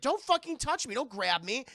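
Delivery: high, loud acted protest; hammed-up furious warning; mock angry outburst. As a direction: snap back loudly, acting grabbed. Acting Jean being grabbed.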